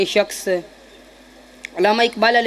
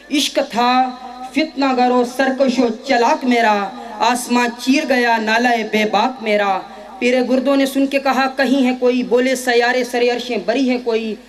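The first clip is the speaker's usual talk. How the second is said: rhythmic, declaimed Urdu verse; poetry recitation. Acted. Student reciting Iqbal's answer to the complaint, declamatory recitation. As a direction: declaim the couplets with deliberate phrasing.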